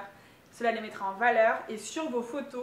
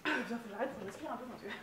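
essoufflée; 3 semitones lower, 7 dB quieter, much faster than usual. Real, not acted. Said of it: "je suis essoufflée".

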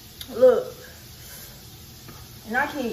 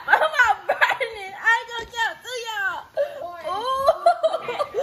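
laughing through the burn; 6 semitones higher, slower than usual. Real, not acted. Denying spicy burn while eating.

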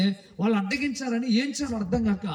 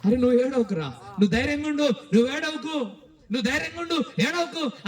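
higher-pitched, insistent comforting; acted urgent reassurance; 4 semitones higher than usual. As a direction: urge a crying brother to be brave. Brother urges crying brother to be brave. (ధైర్యం చెబుతున్న అన్నలా, ఆత్రంగా)

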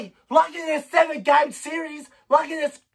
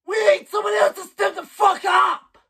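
furious shout; 5 semitones higher than usual. Real, not acted. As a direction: demand it at the top of your voice. Furious fan demanding help.

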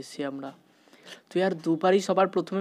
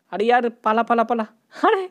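higher, louder frantic run cry; real panic, much higher and louder; panicked yell; 6 semitones higher, 9 dB louder than usual. Real, not acted. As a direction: yell at yourself to flee. Granny chasing him.

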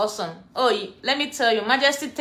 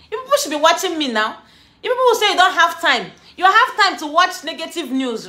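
mock scolding; 4 semitones higher, 3 dB louder than usual. Real, not acted. Scolding viewers for not watching.

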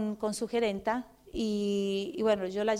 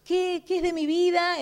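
existential crisis; 7 semitones higher, slower than usual. Retold or imitated. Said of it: "crisis existencial en serio".

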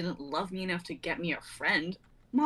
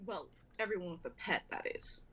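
quiet; 9 dB quieter than usual. Acted. Cat's quiet ominous aside.

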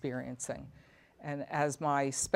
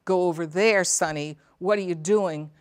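scolding family member; 6 dB louder than usual. Acted. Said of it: "you're saying".

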